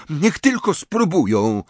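high, defiant scoff; mock them with a dare; jeering. A narrator's reading. Riddle scoffs at being forced to go to school, jeering. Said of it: "zadrwił Riddle".

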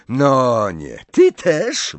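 high, loud exasperated outburst; irritated snarl. A narrator's reading. Hermione turning on Harry for defending Fleur, snarling. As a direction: snap in high-pitched annoyance. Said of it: "warknęła Hermiona".

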